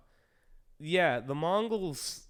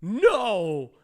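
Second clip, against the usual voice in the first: higher, louder, a hammed-up emphatic no; hum, then blurt out a loud refusing no; mock defiant refusal; 7 semitones higher, 10 dB louder than usual. Beaten civilization refusing to stop, loud mock no. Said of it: "they're like".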